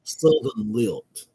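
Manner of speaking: slow, drawn-out Georgia lilt; lazy aristocratic Southern drawl; Southern lilt demo. Shown as a demonstration. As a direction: stretch it out in a genteel Southern lilt. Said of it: "what they call the classic".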